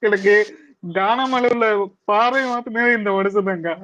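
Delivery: tearful, choked-up protest; real crying. Real, not acted. Upset fan told not to cry, protesting tearfully. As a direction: plead through tears, voice lifting. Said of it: "அழாத".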